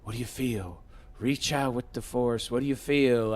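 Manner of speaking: soft, low mock-mystical teacher voice; a quiet, hammed-up Jedi master; hushed mock Luke. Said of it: "he says".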